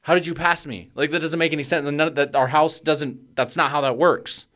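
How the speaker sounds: high-pitched, incredulous questioning; retold exasperated bafflement. Parent asking how the child got past, frantic disbelief.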